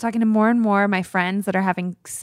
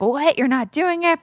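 higher-pitched imitation of incredulous parents; retold indignant surprise; mock parental disbelief; 6 semitones higher than usual. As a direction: play the aghast parent, pitched up. Acts out her parents' objection.

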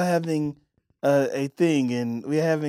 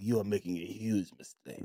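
mock stern Italian lady; 4 semitones lower, 13 dB quieter than usual. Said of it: "And she's like".

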